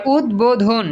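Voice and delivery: উদ্বোধন slowly as ud-bo-dhon; slow, clear d then b in উদ্বোধন; ব sounded. Shown as a demonstration. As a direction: stretch out each syllable of উদ্বোধন. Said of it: "এই যে ব উচ্চারিত হইছে".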